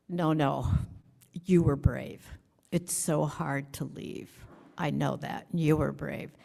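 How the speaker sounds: choked up. Real, not acted. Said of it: "I could barely talk".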